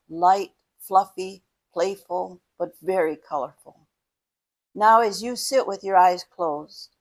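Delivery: measured meditation guide, pausing between phrases; guided meditation. Acted. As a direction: guide the listener gently into breathing and imagining.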